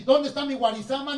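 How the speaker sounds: hammed-up driver hunting for his machete; mock road rage. An angry driver on the freeway, loudly demanding his machete.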